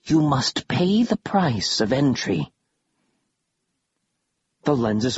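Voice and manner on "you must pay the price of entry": lightly voiced hissing undead; a hint of a hissing ghoul; hissing creature. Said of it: "the thing hissed".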